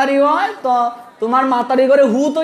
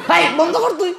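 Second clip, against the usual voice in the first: laughing mother; 4 semitones higher, faster than usual. Retold or imitated. Mother scolding son, laughing.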